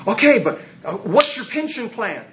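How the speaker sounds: lightly voiced wary priest; skeptical clergy. Clergy quoted asking about money.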